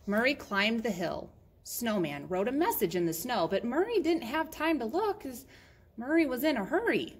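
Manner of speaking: lively read-aloud with rising emphasis; animated storytime narrator; children's story narration. Acted. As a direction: read to little listeners, punching the key words.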